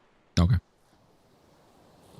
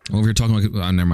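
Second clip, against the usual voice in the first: talking with a mouthful of food; mouth full; much faster than usual. Real, not acted. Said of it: "I'm talking with my mouth full".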